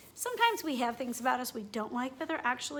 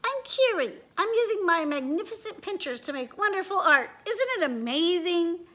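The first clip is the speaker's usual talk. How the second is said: higher, bouncy boastful bug voice; Curie the beetle; 5 semitones higher, 4 dB louder than usual. Acted. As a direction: brag about the art like a proud beetle. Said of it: "clicking his huge pincers".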